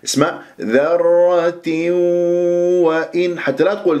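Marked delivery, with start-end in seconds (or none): 0.6-3.4 ذرة وإن as dharratiw-wa-in, clear i then held nasal w; full kasra, merged. Shown as a demonstration. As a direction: finish the i in ذرة before merging into وإن. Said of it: "أتم الكسر ثم أدخل في الإدغام". (ذرة وإن بإتمام الكسر ثم الإدغام)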